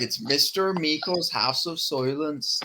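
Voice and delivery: slow, drawn-out Scottish teacher; mock Scottish brogue that drifts towards Irish; Scottish accent. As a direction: imitate a Scottish teacher announcing himself, slowly. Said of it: "and he was Scottish".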